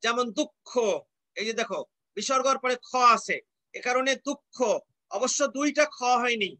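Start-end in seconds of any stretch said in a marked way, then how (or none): 0.4-0.7 দুঃখ as duk-kho, k held; doubled consonant. Shown as a demonstration. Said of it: "সেটি দুবার উচ্চারিত হবে". 4.3-4.6 দুঃখ as duk-kho, k then kh; doubled consonant. Shown as a demonstration. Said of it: "আগেরটা ক, পরেরটা খ".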